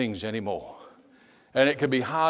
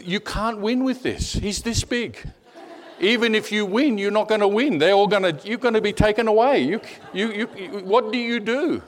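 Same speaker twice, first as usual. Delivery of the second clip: high-pitched, incredulous inner protest; exasperated disbelief; 8 semitones higher than usual. Retold or imitated. Missionary reasoning with himself about a madman, exasperated. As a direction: protest high, stumbling over the repeated "you".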